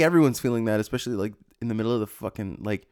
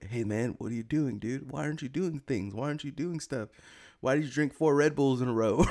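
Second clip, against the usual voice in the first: nagging inner voice; 3 semitones higher, 4 dB quieter than usual. Retold or imitated. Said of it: "my brain, it won't shut up".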